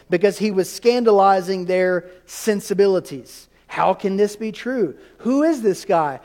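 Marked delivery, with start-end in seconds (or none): 3.7-6.2 offended. Acted. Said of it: "They were scandalized or offended".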